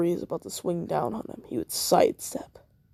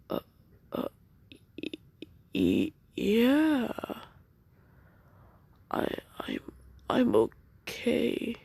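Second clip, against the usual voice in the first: shocked stammer; 6 semitones higher, slower than usual. Acted. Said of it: "Naruto would be shocked".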